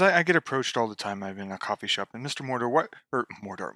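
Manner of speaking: quiet, lightly imitated old English accent; Tolkien's old English accent. Author recalls fans pestering him, soft old English accent. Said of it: "of course in his old English accent".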